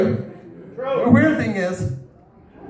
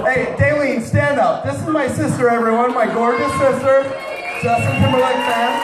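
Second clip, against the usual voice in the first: calling out; 5 semitones higher than usual. Real, not acted. Calling out his sister.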